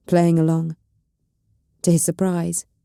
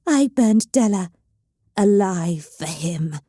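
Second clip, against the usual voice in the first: hissed; slower than usual. Acted. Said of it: "Evelyn hissed".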